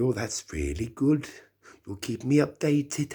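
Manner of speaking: put-on high, loud Welsh lady accent. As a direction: imitate a sweet older Welsh lady. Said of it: "my Welsh accent isn't very good".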